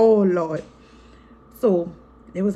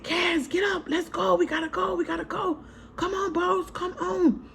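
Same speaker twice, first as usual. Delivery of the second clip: high, desperate, near-tears calling out; frantic urging; 10 semitones higher, 4 dB quieter than usual. Retold or imitated. Mother bleeding, urging family to the car, frantic and tearful. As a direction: plead them out the door, voice cracking.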